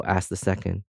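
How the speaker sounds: usual speaking voice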